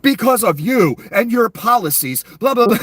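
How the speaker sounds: high, loud mock yell; Miss Bondi. YouTuber mocking a cabinet member's over-the-top praise, high scolding yell. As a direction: bark out praise as if disciplining someone. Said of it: "why Miss Bondi yells it".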